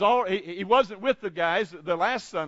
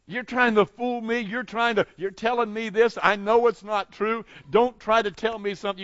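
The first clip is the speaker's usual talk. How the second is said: higher-pitched indignant protest; mild anger; 4 semitones higher than usual. Acted. Thomas rebuking the other disciples, mildly angry. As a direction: push back, accusing them of fooling you. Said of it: "hear maybe even his anger in his voice".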